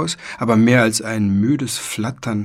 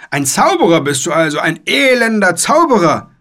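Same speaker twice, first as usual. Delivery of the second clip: loud accusation climbing much higher; bawled; 7 semitones higher, 5 dB louder than usual. A narrator's reading. Knight accusing the boy of sorcery, bawling high and loud. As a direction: bawl the accusation, building in pitch. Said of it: "gröhlte er".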